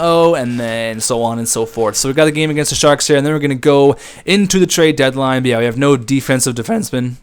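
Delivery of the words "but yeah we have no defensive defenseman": a sudden crack in an otherwise casual remark. Real, not acted. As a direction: voice cracks mid-sentence. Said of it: "Nice voice crack there".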